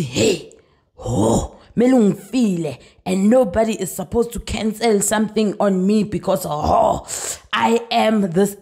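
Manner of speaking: mock entitled. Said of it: "girl was just throwing her weight on me".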